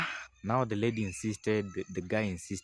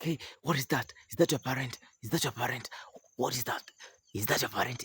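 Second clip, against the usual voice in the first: high, startled questioning; alarmed voice; 5 semitones higher than usual. Acted. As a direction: ask in alarm. Frightened man asks.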